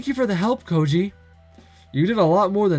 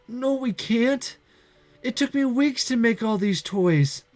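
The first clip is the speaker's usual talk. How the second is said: tearful refusal; 8 semitones higher, slower than usual. Acted. Girl Santa in despair.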